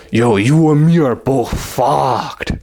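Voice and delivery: lightly voiced drunk guy, slow and slurred; a hint of a drunk stranger dragging his words. Random drunk guy at the bar to the storyteller, mildly slurring.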